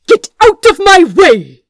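loud, high, ringing order that cracks like a whip; commanding shout. Acted. Cornered prince ordering the guards aside, a ringing commanding shout. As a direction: shout it with absolute authority. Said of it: "The command snapped in the quiet like a whip".

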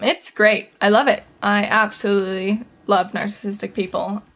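dry mock enthusiasm, sarcastic. Podcaster mocking narcissistic people, sarcastic praise. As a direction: pretend to love it, tongue in cheek. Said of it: "I hope you know that I'm being sarcastic".

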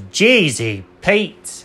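slow, drawn-out amazed exclamation; mock astonishment. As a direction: stretch it out in disbelief. Cat reacts to huge number.

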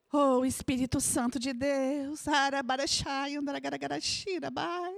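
pleading prayer with murmured tongues; fervent prayer in tongues. Acted. Preacher praying over the congregation, fervent. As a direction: pray aloud, calling on the Spirit.

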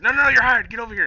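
high, loud bossy take-back; high mock voice. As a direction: squeak it bossily. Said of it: "Britt's like".

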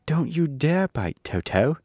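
put-on a child shouting to save her dog; young girl yelling at the lion; crying out. A narrator's reading. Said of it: "she cried out".

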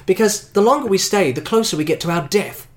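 Bond in character. Acted.

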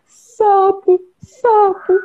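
high squeaky frog voice. Acted. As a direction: croak it out like a cartoon frog.

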